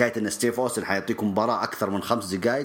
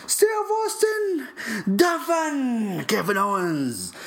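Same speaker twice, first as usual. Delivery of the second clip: high, wailing fake sobs; hammed-up fan crying over a loss; mock crying fan; 8 semitones higher than usual. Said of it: "الصياح ذا لا أسمع".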